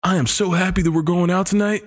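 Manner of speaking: excited goofy party guy, lightly done; mock comedy dude. Describing a comedy movie dude to a friend, mildly excited. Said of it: "a Lampoon movie being like".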